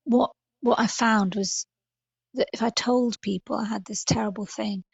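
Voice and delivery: ordinary delivery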